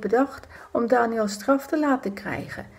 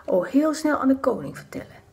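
scheming whisper; 4 semitones higher than usual. Acted. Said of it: "Ze fluisterden".

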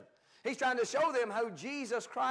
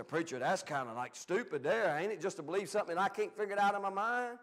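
mock doubter; 2 semitones lower than usual. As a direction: play the doubter, a bit dismissive. Doubting listener voiced by preacher.

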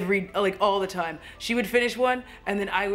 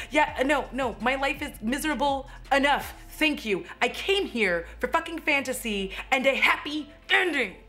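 worked-up, high-pitched protest; indignant, emphatic venting; overexcited rant; 4 semitones higher than usual. Real, not acted. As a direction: cut them off, getting heated. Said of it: "I got overexcited".

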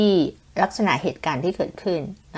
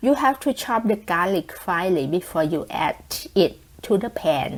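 example sentence read; much slower than usual. Shown as a demonstration. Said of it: "อย่างเช่น".

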